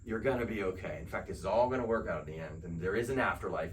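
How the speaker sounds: whispered, then a soft hush; inner voice whispering. Retold or imitated. The still small voice comforting the listener, soft whisper. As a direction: breathe it like a gentle inner voice. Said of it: "it's gonna whisper".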